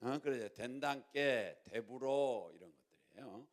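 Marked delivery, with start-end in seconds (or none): 0.5-2.5 Jeolla dialect with stretched endings; Jeolla accent. Shown as a demonstration. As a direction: demonstrate the Jeolla-do version. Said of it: "전라도 버전으로".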